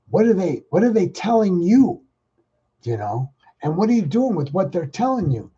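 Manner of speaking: pressing newscaster. Retold or imitated. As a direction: push him for an answer. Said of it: "newscaster said".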